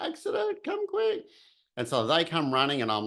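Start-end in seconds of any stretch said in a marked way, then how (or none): 0.0-1.2 retold yell. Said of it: "I just yelled out, top of my voice".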